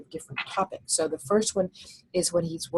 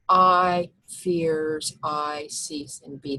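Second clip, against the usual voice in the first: very slow, each word "fears", "cease", "be" hit hard; stressing key words; much slower than usual. Shown as a demonstration. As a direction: pick out only the accented words, slowly. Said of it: "Those are pretty important words".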